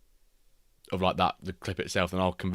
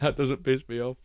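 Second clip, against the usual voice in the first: put-on voice; 6 semitones higher, 5 dB louder than usual. Repeat in odd voice.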